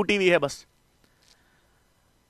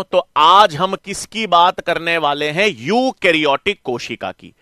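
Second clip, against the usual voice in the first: slow teacherly repetition; slower than usual. Real, not acted. Teacher repeats topic slowly to class.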